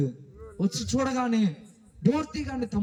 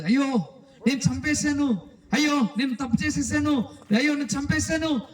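higher-pitched mock wail of regret; acted tearful panic; 6 semitones higher than usual. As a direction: retell a panicked, tearful confession. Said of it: "అని ఏడుస్తూ". (ఏడుస్తున్నట్టు నటిస్తూ ఆందోళనగా)

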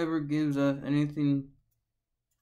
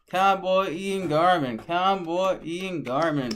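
hype name announcement; 4 semitones higher, 6 dB louder than usual. Acted.

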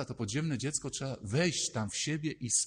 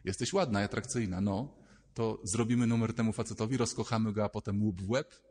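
put-on lower, sly girlish scheming; little Gosia plotting; 3 semitones lower than usual. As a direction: whisper the plan like a naughty girl. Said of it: "mała Małgosia mówi".

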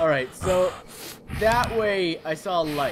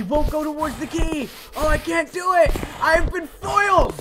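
mock despair; 8 semitones higher than usual. Plans ruined by the monster, mock despair. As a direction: play the foiled villain.

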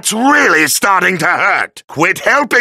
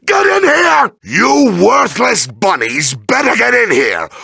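furious order; 2 semitones higher than usual. Acted. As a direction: holler at useless henchmen to come. Villain orders minions in.

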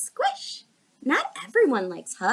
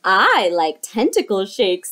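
loud lower octopus voice; 5 semitones lower, 8 dB louder than usual. Acted. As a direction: boom it out proudly. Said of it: "said the octopus".

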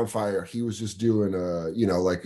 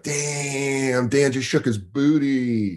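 mock admiring crowd; 2 semitones higher, much slower than usual. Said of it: "they're gonna be like".

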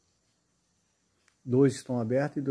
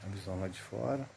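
soft, low tour guide murmur; hushed voice; 4 semitones lower, 10 dB quieter than usual. Real, not acted. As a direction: keep it hushed, wary of the area. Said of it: "eu vou falar baixinho".

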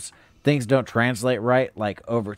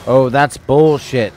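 indignant complaint; 9 dB louder, slower than usual. Real, not acted. Complaining about game.

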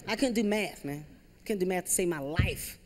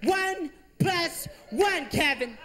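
mock-furious mom drilling simple math; frustrated mom yelling; 9 semitones higher, slower than usual. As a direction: yell at Kevin in half-laughing exasperation. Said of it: "She started yelling at me".

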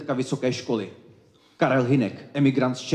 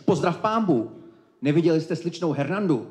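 higher-pitched priest's greeting; priest character; 5 semitones higher than usual. Acted. Priest greets Don Pedro and asks after Hernanda, higher-pitched priest voice. Priest's lines in a read play.

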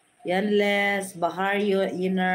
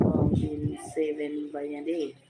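laughing while reading; 3 semitones lower, 4 dB quieter than usual. Real, not acted. Reading a comment, amused.

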